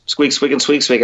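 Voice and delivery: lightly voiced squeaking, like a squirrel; a hint of squirrel chatter; mild squirrel squeaks. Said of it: "And he goes".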